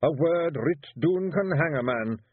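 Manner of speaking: high, Scottish Feegle warrior protesting; high Scots pixie voice wheedling his way out. A narrator's reading. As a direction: plead like a small nervous Scottish warrior. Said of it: "said Rob".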